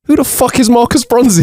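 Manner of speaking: high laughing shout; bursting into a laughing yell. Retold or imitated. Third guy yelling out of the studio in a high laughing shout. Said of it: "Instead, he yells".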